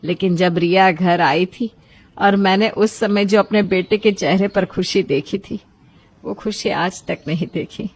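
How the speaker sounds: a hint of a relieved mother, warming up to her son; mother admitting she was wrong, gently at first, then brighter; lightly voiced mother. (बेटे से बात करती माँ, हल्की सी आवाज़ बदलकर)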